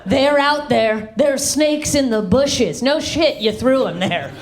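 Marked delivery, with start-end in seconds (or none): 0.0-2.8 slow, sing-song paranoid patrol; paranoid dad. Retold or imitated. Dad patrolling the yard at dawn, slow paranoid sing-song. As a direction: creep it out like a paranoid soldier. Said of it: "patrolling the yard looking for snakes".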